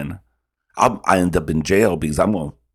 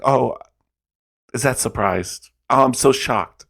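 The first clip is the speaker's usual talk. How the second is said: sarcastic surprise; 7 semitones higher than usual. Retold or imitated. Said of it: "I'm like".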